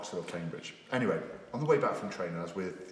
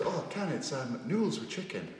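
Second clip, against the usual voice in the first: a touch higher mock Tracy; 5 semitones higher than usual. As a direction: answer him as Tracy. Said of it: "And she goes".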